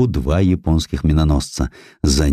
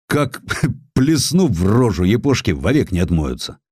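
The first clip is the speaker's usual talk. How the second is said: gloating laugh; 4 semitones higher than usual. A narrator's reading. Sailor Zverbulis gloats over paint.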